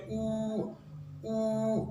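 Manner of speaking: होंठ गोल करके ऊ; rounded OO. Shown as a demonstration. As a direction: round the mouth for a pure ऊ. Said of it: "मुंह गोल करके हम आवाज़ निकाल लेते हैं".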